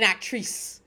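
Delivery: "actrice" ending like "-treese"; theatrical "actrice", stretched second syllable; affected pronunciation. Shown as a demonstration. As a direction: say "actrice" with a long ee at the end. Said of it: "And I say actrice".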